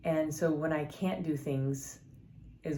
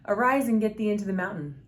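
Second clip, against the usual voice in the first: commanding voice of God; 6 semitones higher, 8 dB louder than usual. Acted. Quoting the Lord's command.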